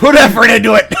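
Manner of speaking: loud urging. Real, not acted. DM egging on player.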